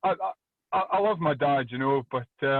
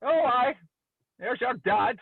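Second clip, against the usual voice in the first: high mock granny voice; lightly voiced Scottish grandma, pitch up; grandma's remark; 7 semitones higher, slower than usual. Grandma at the window, seeing drunk dad, mock higher voice. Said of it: "she turned round and says".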